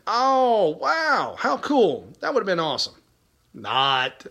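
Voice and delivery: mock-impressed, pitched well up; sarcastic. Real, not acted. Mocking the plane ride with John Brennan, mock awe. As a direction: fake wonder, dripping with irony.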